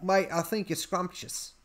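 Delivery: soft attempt at Scouse; Liverpool accent. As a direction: lightly imitate a Liverpool woman. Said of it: "she's a Liverpoolian".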